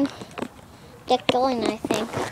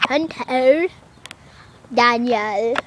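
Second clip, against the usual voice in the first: attempted British pronunciation of names; amateur put-on British; British accent. Shown as a demonstration. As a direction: say "Hunter, Daniel" in mock British. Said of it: "like that".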